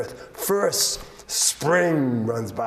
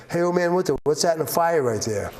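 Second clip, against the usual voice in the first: urgent trickery; 3 semitones higher, much faster than usual. Acted. Coyote tricks Winter with urgency.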